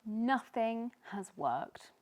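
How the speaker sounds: sighed. Acted. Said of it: "sighed Tiny".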